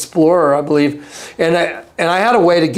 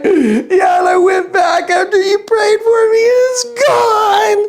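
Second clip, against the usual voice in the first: imitated sobbing. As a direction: sob out the good news. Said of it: "he's sitting there just crying".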